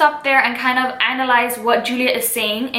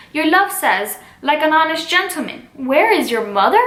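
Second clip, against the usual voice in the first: higher, puzzled quoting-back; puzzled echo; 3 semitones higher than usual. Acted. Juliet repeats the Nurse's odd reply back, puzzled. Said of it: "How oddly thou repliest".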